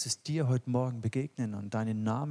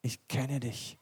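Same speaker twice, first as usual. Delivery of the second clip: tender reassurance. Retold or imitated. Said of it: "Und damit sagt er".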